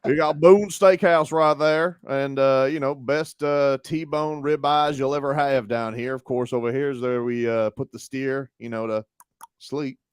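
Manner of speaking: slow, lightly put-on Texas drawl; mock Texas narrator. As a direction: play a folksy Texas tourism pitchman. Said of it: "Texas tra-, uh, tourism".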